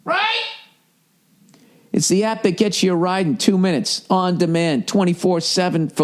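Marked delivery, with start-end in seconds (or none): 0.0-0.4 high squeaky rising "right"; squeaky mock question. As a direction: pipe it up high, teasing. Mock prompting the listener.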